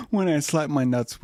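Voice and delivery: high, laughing through the words; breaking into real laughter. Real, not acted. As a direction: crack up mid-line while in a silly voice. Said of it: "I wanna quit because I'm laughing".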